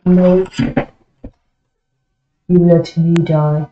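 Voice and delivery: a sudden loud "No!" then an indignant complaint; loud protest. Real, not acted. Player yelling at silent teammates for letting him die, loud protest. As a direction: cry out at teammates who let you die.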